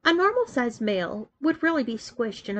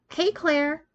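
calling out; 5 semitones higher than usual. A narrator's reading. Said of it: "she called out".

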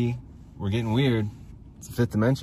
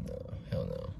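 much lower gruff boss voice; deep gruff boss; 12 dB quieter than usual. Acted. Boss flatly refuses his crony, in a much lower gruff voice. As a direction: growl it out as the boss.

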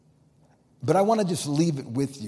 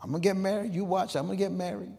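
higher-pitched, emphatic quoted vow; insistent declaration; 7 semitones higher, much faster than usual. Retold or imitated. Churchwoman who kept saying she'd marry, insistent. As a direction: insist on it, higher and quicker at the end. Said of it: "she kept saying".

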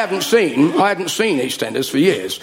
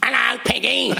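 put-on greeting; 8 semitones higher, slower than usual. Mimics greeting as Peggy appears.

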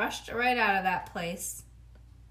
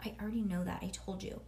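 huffy; 4 dB quieter, faster than usual. Acted. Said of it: "I did a huffy breath at him".

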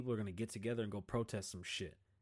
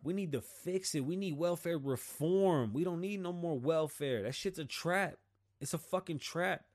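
heated rant; 5 semitones higher than usual. Real, not acted.

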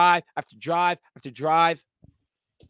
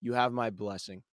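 low, slow, grave blessing; a hint of the brother's grave seriousness; solemn brother quote; 5 semitones lower, 4 dB quieter, slower than usual. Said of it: "looks me in the eyes and says".

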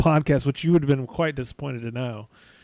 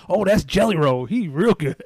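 put-on mild Louisiana accent, slightly raised; 3 semitones higher than usual. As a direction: imitate a Louisiana coworker, lightly. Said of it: "I don't know if you needed to throw in the accent there".

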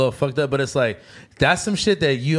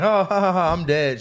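higher-pitched retold laugh, settling into speech; mock laughing; 4 semitones higher than usual. Retelling joking around with mom, mock laughing. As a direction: act out cracking up. Acts out own laughing reaction.

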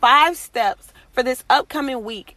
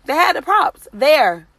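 amazed; 4 semitones higher, 4 dB louder, slower than usual. Real, not acted. Amazed retelling of props.

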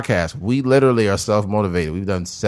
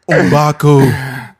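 mock defiant slave; 2 semitones higher, 4 dB louder, much slower than usual. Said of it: "My name is Umbaku".

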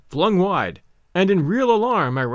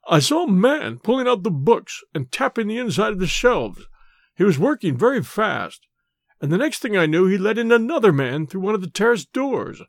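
slightly higher character voice, faltering; lightly voiced Bates, hurt; 4 semitones higher than usual. Injured servant reporting to his master, mildly faltering. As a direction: recount it as a hurt, dazed servant.

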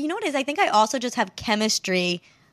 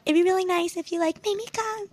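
high and soft, trailing off at the end; coyly ask, letting the end drift into the wind; sweet sexy voice; 9 semitones higher, 5 dB quieter than usual. Shown as a demonstration. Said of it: "say in, like, a sweet, sexy voice".

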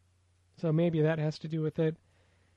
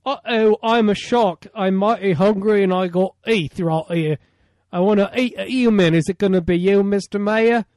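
loud, mock-menacing shark voice; hammed-up shark; 4 semitones higher, 9 dB louder than usual. Shark taunting the mayor in a loud hammy voice. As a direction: play the hungry shark threatening the mayor.

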